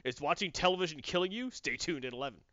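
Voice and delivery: news teaser voice. Shown as a demonstration. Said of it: "the news would do that".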